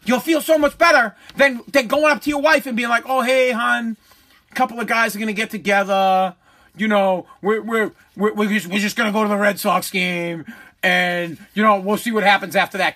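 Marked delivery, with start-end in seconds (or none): 3.0-13.0 timid hedging. Pretend. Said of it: "you're beating around the bush".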